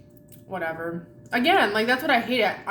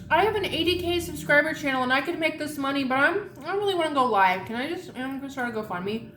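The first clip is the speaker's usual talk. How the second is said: higher-pitched mocking voice of the YouTuber; mocking imitation; 5 semitones higher than usual. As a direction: parody her excuses, a hint whiny. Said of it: "mocking the YouTuber's reasoning".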